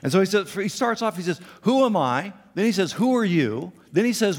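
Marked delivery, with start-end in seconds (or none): 1.6-2.3 high, loud whine; whiny Moses. Acted. Moses protesting to God, high whiny question. 2.9-3.7 high, loud whine; whiny Moses. Acted. Moses protesting to God, high whiny question.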